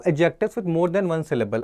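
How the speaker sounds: slow, deliberate heading; slow heading read. Shown as a demonstration. Teacher announcing the next rule to students, slowly. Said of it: "उनका superlative और comparative".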